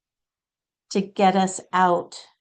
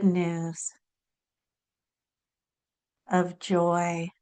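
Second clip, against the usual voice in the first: guided meditation. Real, not acted. Channeler guiding listeners to receive a message, calm meditative voice. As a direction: gently lead them inward, phrase by phrase.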